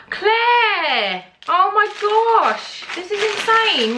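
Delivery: high-pitched thrilled shriek; excited squeal. Real, not acted. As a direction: squeal her friend's name. Squealing at amazing gift.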